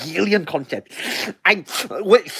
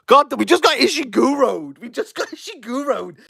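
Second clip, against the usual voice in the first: laughing; 6 semitones higher than usual. Real, not acted. Laughing at repeated author joke.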